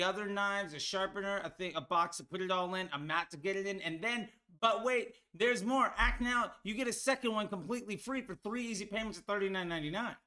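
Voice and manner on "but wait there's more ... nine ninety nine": a hint of an infomercial pitchman; lightly hammed-up "but wait, there's more"; home shopping host. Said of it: "what made the Ginsu knife commercial great".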